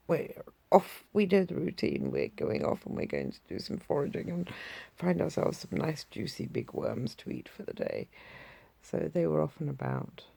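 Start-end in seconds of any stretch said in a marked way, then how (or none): 0.1-8.1 a hint of a perky hen announcing her plans; lightly voiced chicken heading out to forage; mildly voiced hen, brisk and self-assured; Blue's chicken voice. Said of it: "That's how Blue talks".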